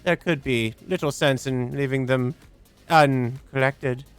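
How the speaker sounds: a hint of an eerie computer, rising to urgent; lightly voiced solemn machine; creepy AI voice. Reads AI character's lines.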